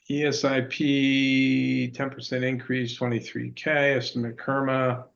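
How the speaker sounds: choppy conference call audio; breaking up. Real, not acted. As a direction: voice cutting out on a bad line. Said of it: "you're breaking up a lot".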